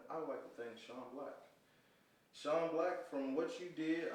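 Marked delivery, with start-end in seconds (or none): 2.3-4.1 wrestling voice. Shown as a demonstration. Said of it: "I'm doing my wrestling voice".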